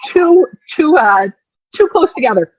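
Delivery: imitated labour yell, high and halting; retold yell. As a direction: blurt it out high and loud, retelling a yell. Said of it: "And I just yell".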